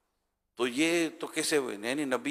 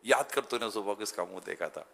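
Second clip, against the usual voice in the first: softer, confiding into someone's ear; ear whisper; 2 semitones lower, 6 dB quieter than usual. Retold or imitated. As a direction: lean in and murmur it privately. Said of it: "کان میں جا کے بولے".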